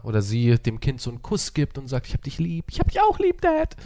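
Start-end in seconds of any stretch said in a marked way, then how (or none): 2.1-3.4 put-on tender parent, squeaky kid reply; parent and child voices. 3.4-3.7 put-on high little kid voice; child voice.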